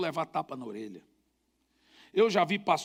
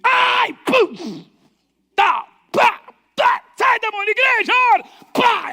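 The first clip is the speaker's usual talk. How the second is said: high, loud frantic shouting over the blows; wild yelling; 14 semitones higher, 12 dB louder, slower than usual. Retold or imitated. Pastor inside the circle yelling while slapping the man, loud frantic shouts. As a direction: yell it out like mid-fight, full force.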